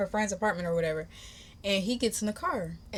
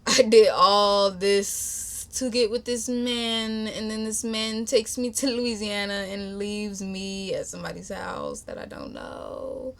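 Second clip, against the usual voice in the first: drawn-out, mock-tearful disbelief; holding in tears; 2 semitones higher, slower than usual. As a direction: retell it as if holding back tears. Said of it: "literally holding in my tears".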